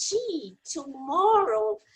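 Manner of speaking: pensamento dito em inglês, calmo; o mesmo pensamento, agora em inglês. Shown as a demonstration. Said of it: "fala em inglês". (demonstrando o pensamento em inglês)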